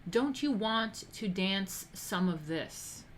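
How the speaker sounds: drawn-out, slow come-on line; slow wiseguy invitation; slow mafioso ask. Retold or imitated. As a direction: stretch the invite out slowly. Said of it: "that's the mafioso way of asking".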